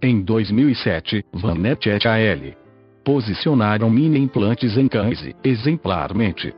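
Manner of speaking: synthetic computer voice reading; robotic text-to-speech narration. Real, not acted. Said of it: "falo através desta voz sintetizada".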